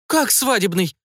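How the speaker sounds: mother stunned by the news of a wedding, astonished breath; astonished gasp. A narrator's reading. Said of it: "изумлённо выдохнула женщина".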